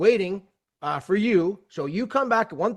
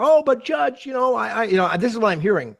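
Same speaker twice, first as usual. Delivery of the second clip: pleading; 5 semitones higher, 3 dB louder than usual. Retold or imitated. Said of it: "Counsel begged and pleaded more".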